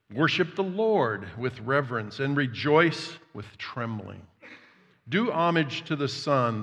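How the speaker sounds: loud, measured public Bible reading; declaiming scripture from the pulpit. Real, not acted. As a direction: proclaim the psalm to the room. Reads Psalm aloud.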